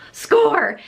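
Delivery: high, drawn-out exclamation; celebratory whoop, played up; mock-triumphant cheer. Vlogger reenacting spotting Kristi's video, triumphant cheer. Acted reaction to seeing the video.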